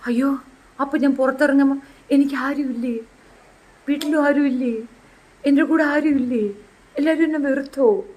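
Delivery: mock-pitiful pleading; plaintive questions, lightly acted; imitated lament. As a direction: play at feeling abandoned. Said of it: "എന്നാണ്".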